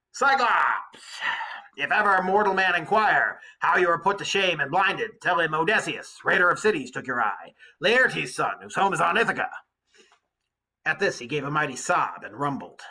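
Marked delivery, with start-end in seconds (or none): 0.1-9.5 louder, a proud defiant yell over the water; angry yell. Acted. Odysseus taunting the blinded Cyclops, a loud angry yell. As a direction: hurl the boast at the giant. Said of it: "let my anger flare and yelled".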